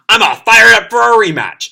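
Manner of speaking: mock-eager challenge to Undertaker; fired-up Grell. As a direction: relish the fight.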